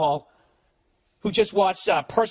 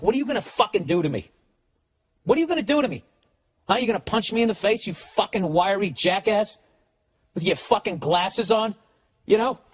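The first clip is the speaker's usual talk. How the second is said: mock taunting; 4 semitones higher than usual. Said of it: "gut busting laughing, shaking".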